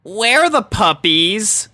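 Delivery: hunting for lost puppies, uneasy; mild worry; anxious. A narrator's reading. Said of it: "Rainbow asked anxiously".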